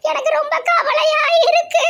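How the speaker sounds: high laughing complaint about her sorrow; laughing whine. Acted. Wife fishes for compliments from husband, high giggling. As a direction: giggle through the mock worry.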